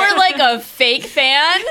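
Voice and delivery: angry shout. Acted. Heated in-character fan argument.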